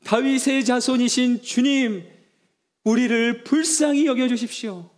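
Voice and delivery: slow, fervent pleading; earnest plea. Acted. Preacher voicing the blind men's plea, fervent. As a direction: beg for mercy from the heart. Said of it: "이 간절한 외침이".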